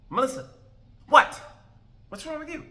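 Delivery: mock surprise. Acting guys surprised by her mood.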